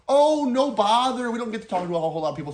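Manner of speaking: put-on elderly couple. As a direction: stretch out the first words like a chatty old couple. Elderly customers quoted.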